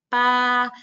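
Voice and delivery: "pa" said high and loud, with the b sounding like a p; first tone "pa" with a crisp p-like b; unaspirated pa. Shown as a demonstration. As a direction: pop out "pa" high and level. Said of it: "La B suena como una P".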